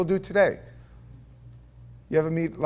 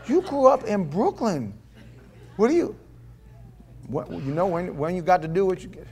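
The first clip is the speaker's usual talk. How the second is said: laughing disbelief; 3 semitones higher than usual. Retold or imitated. Mocking friend's redneck talk.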